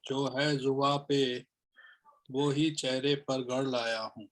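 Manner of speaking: measured, deliberate shayari delivery; poem recitation. Acted. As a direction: recite each phrase with pauses between. (शायरी पढ़ने का ठहरा अंदाज़)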